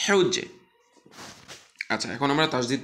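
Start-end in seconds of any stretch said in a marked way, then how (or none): 0.1-0.5 হেউজ্জে chanted four times, high and loud, each with a falling tune; recitation drill. Shown as a demonstration. Teacher drills the syllable for students, clear recitation. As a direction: model each repetition. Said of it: "তো ওখানে হেউজ্জে".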